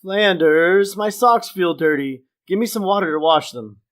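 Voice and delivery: hint of a demanding oaf; lightly voiced complaining Homer. Homer demands water from Flanders, lightly acted complaint.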